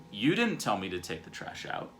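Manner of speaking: mildly defensive protest, pushing on "didn't". Acted. Husband denies being told about the trash, defensive. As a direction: push the blame back, a touch indignant. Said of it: "Or I can get defensive".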